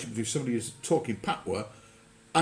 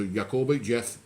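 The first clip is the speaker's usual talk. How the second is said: Black Country dialect. Retold or imitated. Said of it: "my auntie was watching".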